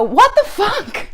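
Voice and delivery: loud, high, drawn-out mock yell; retold yell. Leaning out the window at the honking driver, mock yell. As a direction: lean out and yell it slowly. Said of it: "I lean out the window and go".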